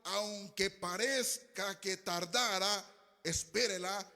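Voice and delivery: slow, emphatic preacher reading; scripture reading. Real, not acted. Preacher reads a promise to his congregation, emphatic and slow. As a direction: proclaim the verse with drawn-out words.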